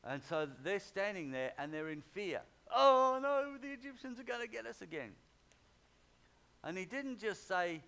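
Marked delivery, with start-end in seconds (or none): 2.7-5.2 high, loud "oh no" that drops back; a hammed-up fearful outcry; mock panic. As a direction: cry out like people trapped at the sea. Congregation afraid at the Red Sea.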